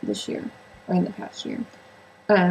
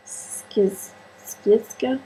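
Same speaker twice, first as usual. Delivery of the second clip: halting, tentative go at a Russian accent; attempted Russian accent; much slower than usual. Shown as a demonstration. Book reviewer attempting an editor's surname, in a tentative Russian accent. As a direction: try the name in a faint Russian accent. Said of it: "my Russian accent".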